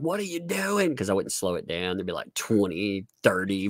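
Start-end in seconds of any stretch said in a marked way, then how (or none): 0.0-0.9 high-pitched mock disbelief; exasperated mods. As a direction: imitate baffled moderators, voice shooting up. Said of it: "my mods were like".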